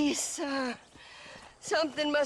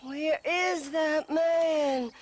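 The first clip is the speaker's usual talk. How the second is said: calling out; 3 semitones higher, much slower than usual. Acted. Bride calling for her missing groom, slow call. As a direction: call out slowly for your man.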